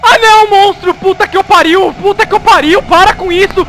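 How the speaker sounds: gritando apavorado, fugindo; sendo perseguido. Real, not acted. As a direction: berre fugindo do monstro. Perseguido pelo monstro. (grito de quem é perseguido)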